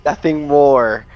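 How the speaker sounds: clenched-jaw, tight delivery; through gritted teeth. Acted. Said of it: "I just say through gritted teeth".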